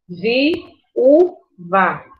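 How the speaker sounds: "Viúva" split as vi - ú - va; vi, ú, va, one at a time; syllable by syllable. Shown as a demonstration. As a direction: pause between each syllable of "Viúva". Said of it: "duas vogais em sílabas separadas".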